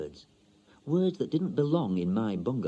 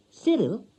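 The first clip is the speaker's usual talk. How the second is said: high, slow, careful foreign woman; lightly accented young wife; foreign wife's voice; 12 semitones higher, 4 dB louder than usual. A narrator's reading. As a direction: lift the voice high and go slow like a learner. Wife calls husband's name.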